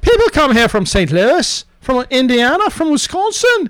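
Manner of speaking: comic put-on Irish voice; exclaim, then read on in a mock Irish accent; Irish lilt, hammed up. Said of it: "it all winds up being Irish".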